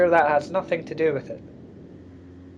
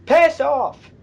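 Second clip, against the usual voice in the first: angry shout; 10 semitones higher, 5 dB louder than usual. Real, not acted. Hanging up on phone caller.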